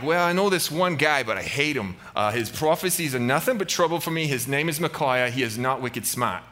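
lightly put-on Boston accent; mock Boston mob boss; Boston gangster. Ahab grudgingly naming Micaiah, Boston gangster accent. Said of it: "old school gangsters with Boston accents".

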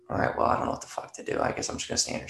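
fast breathy whisper to himself, at a loss; unsure inner thought. Retold or imitated. An actor about to enter the scene, whispering to himself, unsure. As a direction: mutter it under your breath, not knowing what to do.

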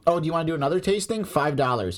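mock the pushy winery staff.

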